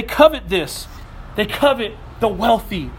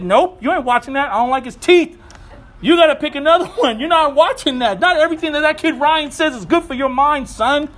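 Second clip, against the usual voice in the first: raised, higher stern dad voice, partly laughing; 5 semitones higher than usual. Retold or imitated. Father forbidding his son a kids' show, firm and raised.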